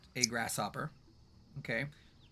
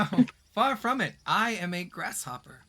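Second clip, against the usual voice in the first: lightly voiced, higher-pitched grasshopper; grasshopper in denial; 3 semitones higher, 4 dB louder than usual. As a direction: deny it airily, starting up high. Grasshopper denies being royalty.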